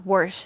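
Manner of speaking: "wash" with an r, "warsh"; mom's Wisconsin pronunciation. Retold or imitated. Imitating mom's word that drove her crazy, "wash" said as "warsh". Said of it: "that used to drive me cra".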